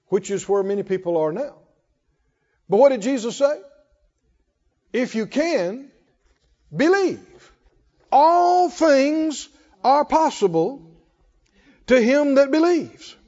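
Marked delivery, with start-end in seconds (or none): 4.9-13.2 if you can held slow, then believe rising high and loud; Jesus' words thrown out with force; emphatic preaching. Acted. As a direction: proclaim it, building up.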